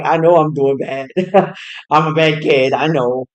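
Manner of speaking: laughing confession. Retold or imitated. Mom admitting, laughing.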